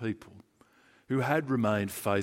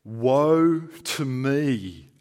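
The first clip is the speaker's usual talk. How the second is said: very slow and louder; loud lament; 6 dB louder, much slower than usual. Acted. Isaiah crying out before the Lord, loud and very slow. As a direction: cry out the woe slowly. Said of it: "I cried".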